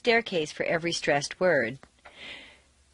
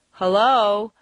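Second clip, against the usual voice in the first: HELLO loud but questioning, end lifted; HELLO with a doubtful rise; uncertain hello; 5 dB louder than usual. Shown as a demonstration. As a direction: call out HELLO as if unsure anyone is there. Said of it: "it sounds so uncertain".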